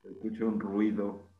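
robotic vocoder-filtered voice. Real, not acted. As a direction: talk through a vocoder effect. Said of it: "Es el vocoder". (voz con vocoder)

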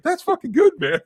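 Kevin Smith impression. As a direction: cheer it out, high and loud. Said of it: "He's like".

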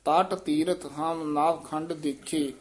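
ਤਟ said softly, not hard; slow line with light ਤਟ. Shown as a demonstration. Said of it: "ਪੋਲਾ ਹੀ ਬੋਲਣਾ". (ਤਟ ਪੋਲਾ ਬੋਲੋ)

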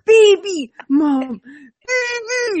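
put-on demanding toddler. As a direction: whine it like a little girl who wants her cat video. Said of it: "She's, like, so mad".

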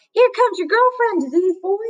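high sing-song jeer, changed voice; mocking taunt. Bully mocking Rob about Sistine, high sing-song jeer. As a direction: tease him mercilessly in a silly voice.

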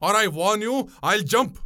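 high, outraged outburst; frantic accusation. A narrator's reading. Passenger calling boatwoman wicked, frantic and angry. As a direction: accuse and threaten, voice pitched high. Enraged passenger threatens to jump.

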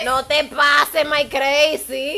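very slow, teasing warning; jokingly warning her friend to back off; mock threat. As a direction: drag it out like a playful threat.

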